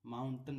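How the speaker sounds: "माउंटेन" said as MOUN-tun, last vowel a schwa; short अ ending. Shown as a demonstration. Teacher showing students how it is read, "माउंटेन" with a short अ ending. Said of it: "यहाँ पर अ का उच्चारण".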